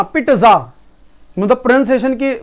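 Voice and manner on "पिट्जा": पिट्जा split as "pit-tuh-ZA"; loud, low पिट्जा with the t hammered; overdone t. Shown as a demonstration. Teacher showing how not to say it, overpronounced. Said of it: "लेकिन बोलना ऐसे भी नहीं बोलना".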